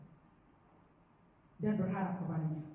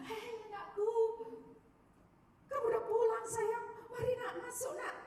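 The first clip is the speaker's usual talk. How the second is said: much higher, tender mother's welcome; mother greeting her runaway son, much higher and loving; 13 semitones higher than usual. Acted. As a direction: call your son home with open arms, voice lifted high.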